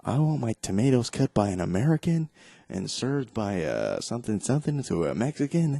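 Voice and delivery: mock sarcastic pundit. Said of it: "he goes, being stupid".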